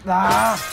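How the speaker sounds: short, loud "ah"; loud exclamation; frustrated yell. Real, not acted. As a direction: cry out in mid-game frustration. Frustrated cry during game chase.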